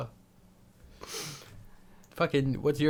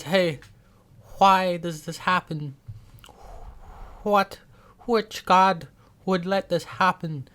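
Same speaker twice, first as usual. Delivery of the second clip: Italian mama voice; 4 semitones higher, 3 dB louder, slower than usual. Retold or imitated. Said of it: "You sound like y".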